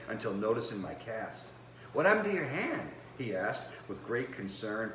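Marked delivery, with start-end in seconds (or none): 1.9-2.9 put-on higher, gentle boy's voice, concerned; a polite eleven-year-old boy asking softly; young nephew's voice. A narrator's reading. Boy nephew asks his new uncle, gently concerned. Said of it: "His voice was soft and sweet with a polite southern accent".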